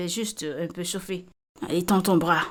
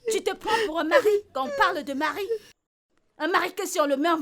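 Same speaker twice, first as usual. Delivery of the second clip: tearful shouting at a useless husband; tearful angry rant; 9 semitones higher than usual. Acted. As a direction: wail the insults through tears. Wife berates husband in quarrel.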